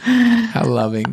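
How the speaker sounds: high, slow mock-sweet how loving; teasing wife with fake sweetness; sarcastic. Real, not acted. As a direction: drip sarcasm over it. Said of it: "sarcastic comment".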